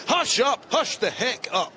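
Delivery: tells the crowd behind him to shut up, slowly; mock angry hush. Real, not acted. Commentator snaps at noisy crowd.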